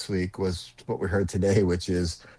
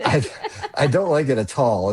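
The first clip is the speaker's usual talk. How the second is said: put-on old grandfather way of talking; 4 semitones higher, 3 dB louder than usual. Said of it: "I love when you say it tall".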